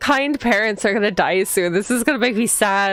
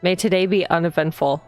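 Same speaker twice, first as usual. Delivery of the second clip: read-aloud narration. A narrator's reading. Player reading the heroine's morning greeting aloud, even narration. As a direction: read the game text evenly, unhurried. Reads the game's text aloud.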